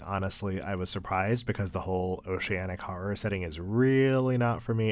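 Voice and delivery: usual speaking voice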